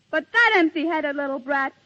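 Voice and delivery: insulted lover, voice up and loud; indignant outburst. Acted. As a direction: fling it back at him, offended. Jealous quarrel peaks.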